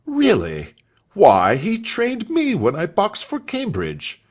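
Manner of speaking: a hint of a delighted schoolmaster; enthusing master. A narrator's reading. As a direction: gush about your old trainer. Master enthuses about Joe.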